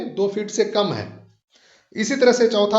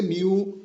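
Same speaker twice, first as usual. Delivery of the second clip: म्यू held long as the stressed syllable; drawn-out stressed syllable; 5 dB quieter, slower than usual. Shown as a demonstration. Teacher showing the stressed syllable, drawn out. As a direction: stretch out म्यू. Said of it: "जिसको हम खींच के पढ़ रहे हैं".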